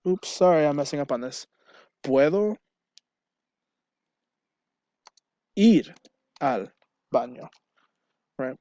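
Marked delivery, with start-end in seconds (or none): 2.0-7.5 rising question, jumping up on ir; asking as a question. Shown as a demonstration. Teacher showing students how to ask for the bathroom, as a question. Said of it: "We ask it as a question".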